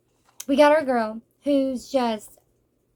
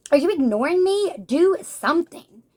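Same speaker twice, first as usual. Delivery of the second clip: higher, louder, demanding mock confrontation; irritated rival; 4 semitones higher, 4 dB louder than usual. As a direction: snap at her like a jealous rival, pitch raised. Rival confronts silent girl.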